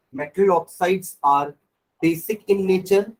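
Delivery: slow, word-by-word dictation with pauses. Shown as a demonstration. Teacher dictating notes to the class, slow and deliberate. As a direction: spell it out slowly so the class can write.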